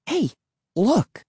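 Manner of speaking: high, brief call to look; calling attention. A narrator's reading. Emily points out the pond.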